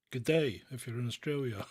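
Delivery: put-on a light, jokey Australian accent; hammed-up Australian greeting that barely leaves his own voice; bad Australian accent. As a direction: greet the Aussies in a half-hearted Australian twang. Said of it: "the terrible Australian accent".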